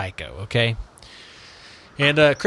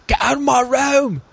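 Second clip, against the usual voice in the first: hammed-up gruff superhero growl; over-the-top comic-book hero rasp; Batman; 13 semitones higher than usual. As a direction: put on a mock masked-vigilante voice, strained and defiant. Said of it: "I'm going to talk like this".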